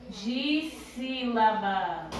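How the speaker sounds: "Dissílabas" very slowly, drawn out syllable by syllable; separando em sílabas. Shown as a demonstration. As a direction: stretch each syllable of "Dissílabas" like a teacher demonstrating. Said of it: "a gente vai separar as palavras em". ("Dissílabas" bem devagar, esticando cada sílaba)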